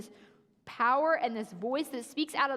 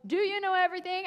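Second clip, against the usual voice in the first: booming God voice, fast and raised; loud thunder; 6 semitones higher, 3 dB louder, faster than usual. Retold or imitated. God thundering at Job, mild mock boom. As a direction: throw "you" out like thunder. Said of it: "in this loud thunder and goes".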